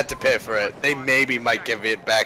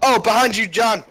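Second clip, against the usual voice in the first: raging gamer; 8 semitones higher, 3 dB louder than usual. Real, not acted. Warning teammate in firefight.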